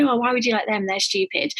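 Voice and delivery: high, sneering mock of a partner's taste. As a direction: scoff at their taste, lightly mocking. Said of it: "they'll mock us and say".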